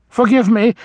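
lightly voiced old vole apologizing; apologetic old vole. A narrator's reading.

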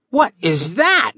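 high, slow puzzled question; a kid baffled by the secret; puzzled boy. Acted. Billy asking about U seven seven, puzzled and high. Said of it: "Billy asked, puzzled".

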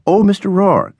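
high-pitched call to catch his attention. A narrator's reading. Landlady calls after the departing student, calling out. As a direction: sing out the name to stop someone leaving. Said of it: "she called".

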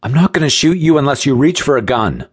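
tense, high-pitched threat; called-out warning. A narrator's reading. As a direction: shout it through the doorway. Companion shouts warning at gunman.

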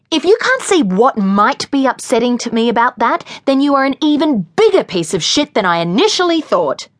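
angry confrontation. Acted. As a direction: lay into him, rising to a peak. Lily's angry confrontation of Pete.

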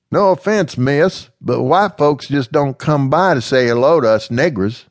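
wary and respectful; young slave woman, cautious. Acted. Slave woman explaining the rules to Amanda, cautious.

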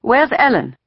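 high-pitched, alarmed question; frightened question. A narrator's reading. Mother asking where her daughter is, frightened. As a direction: ask urgently after a missing child. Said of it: "had a frightened look".

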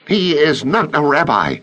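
high, cold Azariah voice cutting in; cold interruption. A narrator's reading. Azariah interrupting a council colleague, cold and high. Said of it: "Azariah cut in coldly".

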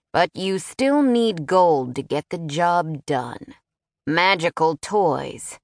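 slow, scornful mockery of wizards; lightly voiced haughty prince, drawn out; taunting nobleman.

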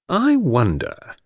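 slow, drawn-out wondering; musing tease. Acted. Friend has a sly thought about detective, musing slowly. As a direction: stretch it out to bait him.

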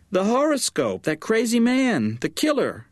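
high, fretful mother's voice, climbing in alarm; frantic mother. A narrator's reading. Mother on the phone to her daughter, high and fretful. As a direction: play the panicky mother, pitch way up.

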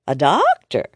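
a touch of impressed surprise. Acted. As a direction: sound pleasantly surprised. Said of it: "Sweet Louise sounded impressed".

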